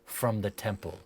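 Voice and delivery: measured, dramatic scene-setting with deliberate pauses; game master narration. Acted. Game master describing a dream to a player, dramatic narration. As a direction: paint the vision phrase by phrase.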